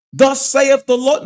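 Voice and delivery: high, slow mock-prophet proclamation; hammed-up voice of a commanding God; mock divine decree. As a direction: intone it slowly, high, like a pompous decree. Acts out a dictator God.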